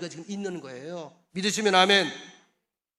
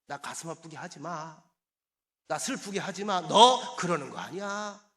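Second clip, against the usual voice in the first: God's hurt reproach; 5 dB louder than usual. Retold or imitated. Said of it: "하나님께서 내게 그러더라고요".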